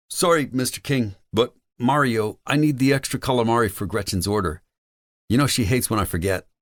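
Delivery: high-pitched youngster's voice, apologizing; apologetic delivery kid. Acted.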